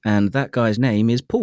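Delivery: careful, standard RP English; RP British accent. Shown as a demonstration. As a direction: demonstrate Received Pronunciation on Paul. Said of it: "I'm gonna do it R P".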